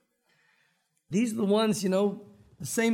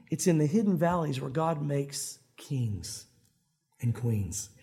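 solemn; 7 semitones lower, slower than usual. Real, not acted. Solemn point of the sermon.

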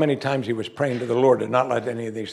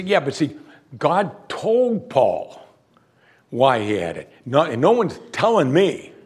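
skeptic objector. Retold or imitated. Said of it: "now, some people say".

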